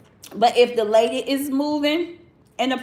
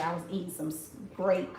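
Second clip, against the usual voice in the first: crunching while talking; talking through a mouthful; mouth full; 5 semitones lower, 11 dB quieter than usual. Real, not acted. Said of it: "for crunching in y'all ear".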